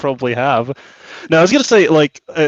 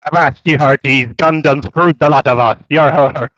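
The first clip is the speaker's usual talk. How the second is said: pirate voice. Pretend. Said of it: "talks like a pirate".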